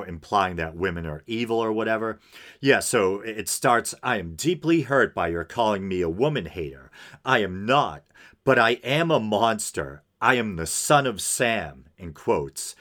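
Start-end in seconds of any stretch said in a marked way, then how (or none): 4.0-11.8 deliberate, emphatic reading aloud; dramatic letter reading. Acted. Podcaster reading a killer's letter to listeners, dramatic reading. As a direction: read it out as a formal statement.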